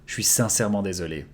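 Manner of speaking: "Je suis sincèrement désolé" fast, "je suis" squeezed to "chuis"; fast casual take. Shown as a demonstration. Teacher showing the relaxed spoken form, fast. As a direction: rattle it off casually, swallowing the "je". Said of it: "I am sincerely sorry".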